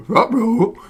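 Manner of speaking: high cartoon talking dog; Scooby-Doo voice. Amused player trying an easy one, Scooby-Doo voice. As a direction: yelp it like a goofy cartoon dog. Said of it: "This is a Scooby-Doo".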